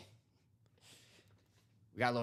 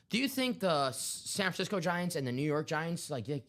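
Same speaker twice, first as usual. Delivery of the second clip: mock dopey caller voice; 5 semitones higher than usual. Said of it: "He goes".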